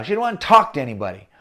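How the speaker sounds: usual speaking voice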